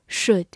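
should with a reduced schwa vowel; weak vowel. Shown as a demonstration. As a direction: say should as "shuhd". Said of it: "中间的元音也可以弱读成a".

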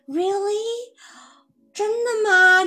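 teacher demos amazed disbelief; incredulous really. Shown as a demonstration. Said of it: "这个语气是一个反问的语气".

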